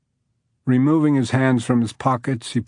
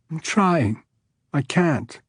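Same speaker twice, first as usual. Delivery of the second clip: sobbing; 5 semitones higher, slower than usual. Acted. Judge crying to the man, sobbing. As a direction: sob out the words. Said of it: "her crying didn't abate".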